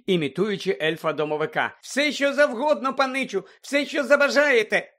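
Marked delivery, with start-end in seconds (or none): 1.8-4.9 high squeaky house-elf imitation; piercing elf squeak. A narrator's reading. Fred mimics a house-elf serving his young master, piercing squeak. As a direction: pipe it up like an eager servant elf. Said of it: "Він перейшов на пронизливий писк, імітуючи ельфа-домовика".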